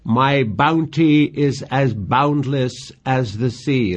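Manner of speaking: slow, measured verse recital; reciting Shakespeare with care; poem reading. Acted. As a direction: read the lines like a lover's plea. Reads Juliet's favorite lines.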